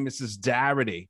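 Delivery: "Darity" with a broad Boston AH for Doherty; Boston mispronunciation. Retold or imitated. Teacher saying her own name, "Darity" in Boston pronunciation. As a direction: say "Darity" with the OR flattened to AH. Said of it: "she said her own name".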